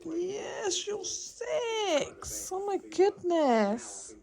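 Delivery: high, loud doggy talk; talking to a pet. Real, not acted. Cooing at the birthday dog.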